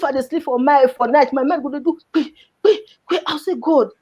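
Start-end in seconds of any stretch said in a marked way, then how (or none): 2.1-3.9 a touch of real tears as she remembers; tearful retelling. Retold or imitated. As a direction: voice catching on a sob, retelling. Recalls nights of despair.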